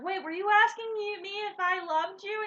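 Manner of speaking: retold sudden realisation. Woman catching on an hour later, startled. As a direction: blurt it as if it just clicked.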